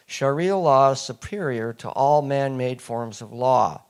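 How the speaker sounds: "all" hit hard, the key word of the line; stress on all. Real, not acted. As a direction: lean on "all", underline it with the voice. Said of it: "I said all, underlined, italicized, and emphasized".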